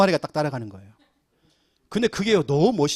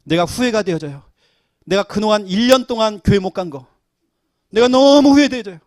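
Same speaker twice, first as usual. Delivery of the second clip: rising regret; 4 semitones higher, 8 dB louder than usual. Retold or imitated. Congregant confessing regret, quoted.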